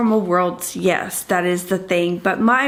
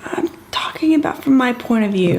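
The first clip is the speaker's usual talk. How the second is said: whisper; 2 semitones higher than usual. Real, not acted. Arguing about point of view.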